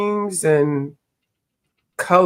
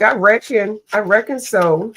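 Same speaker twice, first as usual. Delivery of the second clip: a hint of a sweet Southern twang, only lightly imitated; understated Southern twang, a gentle imitation; 4 semitones higher than usual. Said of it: "her little sweet little, cute little twang".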